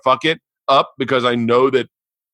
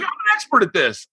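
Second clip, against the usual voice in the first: mock haughty boast; 12 semitones higher than usual. Retold boast.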